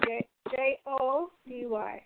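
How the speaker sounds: spelled out slowly. Shown as a demonstration. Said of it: "Is it Chrissy W?".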